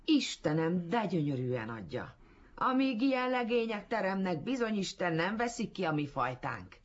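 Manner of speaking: high, loud cry of delight; rapturous exclamation. A narrator's reading. Old auntie in the audience crying out at the reading, rapturous. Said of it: "föl is kiáltott nagy elragadtatásában".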